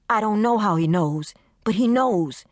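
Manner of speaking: high, anxious pleading friend. Acted. Desiree pleading with Carmen over the phone, high and anxious. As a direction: beg her friend to believe her. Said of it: "Desiree's voice changed from pleading".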